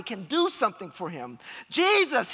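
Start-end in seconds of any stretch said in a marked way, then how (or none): 1.7-2.3 loud, high-pitched cry for help; shouting plea. Retold or imitated. Blind beggar calling to Jesus, shouting. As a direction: call out to be heard over a crowd. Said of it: "he shouts".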